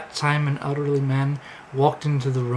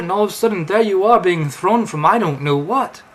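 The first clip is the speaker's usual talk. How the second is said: lilting mock Amish accent, building louder and higher; terrible Amish accent; 3 semitones higher, 5 dB louder than usual. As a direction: tell it amazed in a fake Amish voice. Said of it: "my terrible Amish accent".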